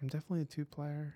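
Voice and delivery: quick hushed whisper; all quiet. Pretend. Co-host admitting toilet paper preference, whispered quickly. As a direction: confess it in a fast whisper.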